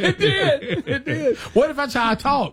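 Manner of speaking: squeaky put-on voice, laughing; high silly voice. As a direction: pitch it up into a goofy squeak. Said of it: "trying different voices".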